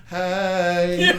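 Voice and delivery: a sweet eerie hello; creepy kid greeting. Retold or imitated. Alien kid greeting him from the street, lightly voiced. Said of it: "looks at me and goes".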